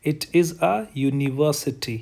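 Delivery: slow, deliberate model line; slow example sentence. Shown as a demonstration. Teacher showing students the sound in university, slowly. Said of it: "इस यू ने किसकी आवाज़ निकाली है".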